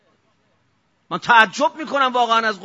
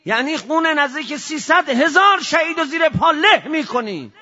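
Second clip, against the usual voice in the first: shout; 4 semitones higher than usual. Real, not acted. Preacher denouncing the killing.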